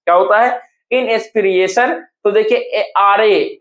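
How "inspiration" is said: "inspiration" in separate syllables, in-es-pi-re-shan; broken into syllables. Shown as a demonstration. Teacher breaking up the word, "inspiration" slow and segmented. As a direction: spell out the sound of "inspiration" piece by piece. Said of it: "इसको तोड़ के जब लिखेगा".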